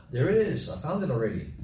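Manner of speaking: delighted at finding the page; pleased surprise. Real, not acted. Finds the verse in his Bible.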